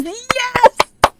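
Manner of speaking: high, loud, exultant yes; excited cheer. Real, not acted. Delighted at naming Bert Gummer.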